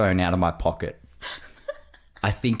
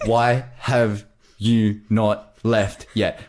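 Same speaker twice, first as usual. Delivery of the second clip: deliberate mock demand; much slower than usual. Acting out her text message.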